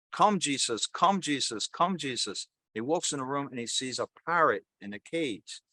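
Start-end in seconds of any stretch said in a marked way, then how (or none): 0.1-2.5 mild mock cry, pitched up; repeated call, each one falling away; loud cry. Voice heard by a robber in the house, mildly crying out. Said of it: "he's hearing this loud cry, this voice saying".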